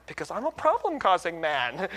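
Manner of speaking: laughing comeback. Retold or imitated. Playful comeback in acted banter.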